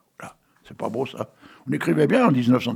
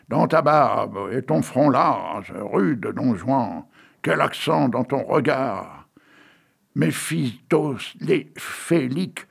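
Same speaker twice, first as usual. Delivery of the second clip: poem reading; much slower than usual. Acted. Host reads poem on air.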